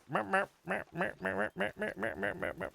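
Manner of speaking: high teasing cat meows; mocking meows. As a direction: meow like a cat right in his face to taunt him. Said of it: "and he's going like".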